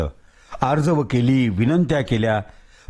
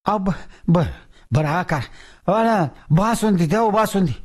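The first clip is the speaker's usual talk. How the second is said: higher, bargaining whine; wheedling ghost; 5 semitones higher than usual. Acted. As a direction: beg and bargain. Ghost begging.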